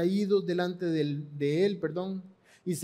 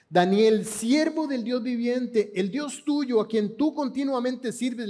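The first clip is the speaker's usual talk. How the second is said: proclaiming call; 5 semitones higher than usual. Acted. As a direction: proclaim the title with conviction. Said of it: "¿Cómo te identifican?".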